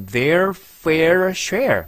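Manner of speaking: very slow, loud, R drawn out in fair share; exaggerated R demo; R sound drill. Shown as a demonstration. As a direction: stretch every R in fair share. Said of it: "R 발음 계속".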